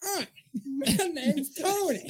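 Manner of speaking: high, slow little character voice; Tony puppet voice. Pretend. Puppeteer retrying his character's introduction, high slow character voice. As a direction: say hello as a tiny puppet. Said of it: "Try that again".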